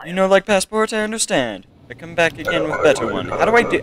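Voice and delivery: put-on a British accent that keeps slipping away; weak stab at a British accent; failed British accent. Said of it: "I lost my ability to do a British accent".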